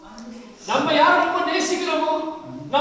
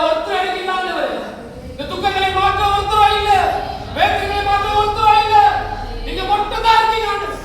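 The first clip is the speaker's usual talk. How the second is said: earnest plea, pitched up; pleading prayer; 3 semitones higher than usual. Acted. Preacher praying as a helpless believer to God, insistent pleading. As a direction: cry out to the Lord in acted prayer.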